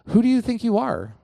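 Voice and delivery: brash taunt, lightly acted; trash talking. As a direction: hurl the question at Goliath. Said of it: "totally trash talking".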